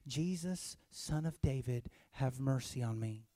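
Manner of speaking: soft, low-key recital of a plea; understated mock plea. Shown as a demonstration. Preacher wrongly imitating blind Bartimaeus, mild plea. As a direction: say it far too quietly to be noticed. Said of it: "is that an accurate example?".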